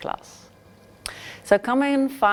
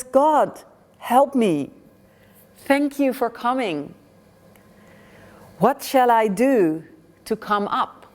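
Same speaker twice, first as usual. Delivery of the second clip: pleading; 4 semitones higher than usual. Acted. Pilgrim begs God for help.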